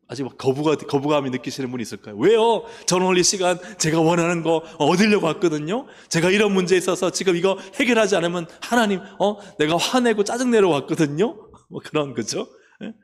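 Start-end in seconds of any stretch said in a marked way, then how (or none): 2.2-11.5 loud, high, petulant demand on God; a sulky churchgoer venting at God; indignant complaint. Acted. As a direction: complain loudly like a believer who wants their way. Believer demanding their own way.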